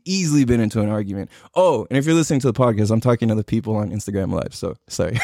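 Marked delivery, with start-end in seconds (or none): 4.6-5.2 real laugh breaking through the apology. Real, not acted. Apologizes to live viewers, laughing.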